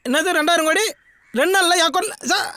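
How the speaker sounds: high, thrilled voice into the phone; thrilled disbelief, pitched well up; excited phone talk. Acted. On the phone to sir about two thousand crores, high and excited.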